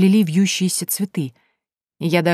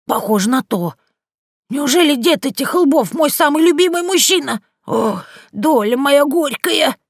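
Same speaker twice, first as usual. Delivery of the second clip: put-on high, loud old woman's wail, slowing at the end; sobbing lament; 9 semitones higher, 5 dB louder than usual. Yaga bewails her fate, high, loud, slowing down. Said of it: "а потом всхлипнула".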